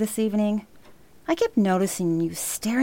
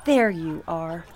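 calling out. Acted. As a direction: call her in from another room. Grandma calling granddaughter in house.

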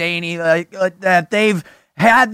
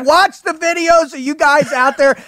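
raised, high-pitched excitement; fired up; 7 semitones higher than usual. Real, not acted. Fan telling the guest how he watches the videos, fired up. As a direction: gush with high, rising energy. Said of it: "It fires me up".

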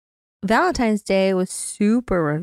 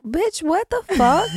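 exasperated outrage; 8 semitones higher, slower than usual. Real, not acted. Outraged friend doesn't know singer.

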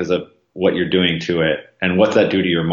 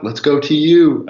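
mock crowd cheer; 7 semitones higher, 4 dB louder than usual. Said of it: "hearing people scream".

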